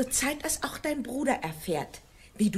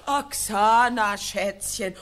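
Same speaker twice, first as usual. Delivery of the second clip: slow, louder sneering mimicry; wife loudly mimicking her husband's pet name, slow and scornful; loud mocking echo; 5 dB louder, slower than usual. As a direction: drag out his words with scorn. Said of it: "hör doch auf mit dem albernen Schätzchengetue".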